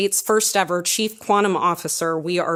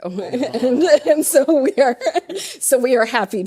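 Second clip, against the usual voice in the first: higher, louder words broken up by laughter; laughing through words; 7 semitones higher, 4 dB louder than usual. Real, not acted. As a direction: keep laughing while getting the sentence out. Laughing after Colorado joke.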